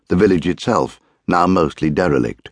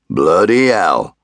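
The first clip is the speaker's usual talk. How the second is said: slow, louder startled oath; a startled miner swearing at the sight of the inspector; surprised exclamation; 4 dB louder, slower than usual. A narrator's reading. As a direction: blurt it out in shock. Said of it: "Waits had exclaimed".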